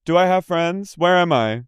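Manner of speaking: high, dazed questions; mock lost voice. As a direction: sound lost and confused. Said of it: "she was like".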